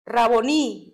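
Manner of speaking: "Raboní" with the accent on its last syllable, the "í"; stress on final I. Shown as a demonstration. Reader pronouncing Mary's cry to Jesus, "Raboní" stressed on the final í. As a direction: lean on the closing "í" of "Raboní". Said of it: "tiene el acento en la I".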